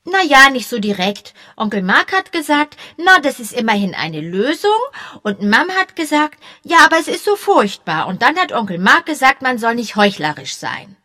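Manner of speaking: high, eager schoolboy chatter; excited boy. A narrator's reading. Young boy chattering eagerly to the policemen. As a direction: babble on like an excited kid.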